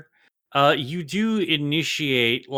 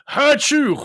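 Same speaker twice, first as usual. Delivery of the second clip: squeaky sun voice; 14 semitones higher, 7 dB louder than usual. Pretend. Sun voiced, high far shout.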